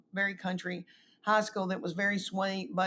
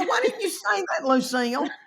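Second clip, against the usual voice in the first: mock exasperation; 8 semitones higher, 3 dB louder than usual. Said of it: "I go".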